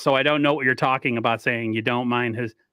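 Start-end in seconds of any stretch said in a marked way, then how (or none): none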